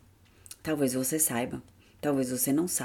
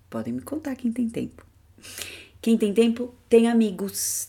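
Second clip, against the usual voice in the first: sing-song high voice; 6 semitones higher, 4 dB louder than usual. Acted.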